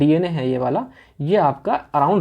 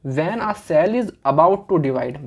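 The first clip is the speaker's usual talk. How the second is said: slow dictation; much slower than usual. Shown as a demonstration. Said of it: "slow dictation".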